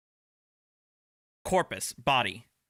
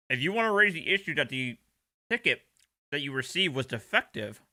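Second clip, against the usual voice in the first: talking while chewing; mouth full. Real, not acted. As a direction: speak around a bite of food. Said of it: "I'm talking with my mouth full".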